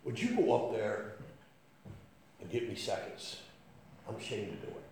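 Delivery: softly voiced sheepish plea; hushed, halting favor; sheepish request. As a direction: ask under your breath, a little ashamed. Billy sheepishly asks for seconds.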